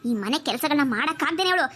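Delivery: aunt reassuring her niece, a hint of scheming. Aunt voice plotting.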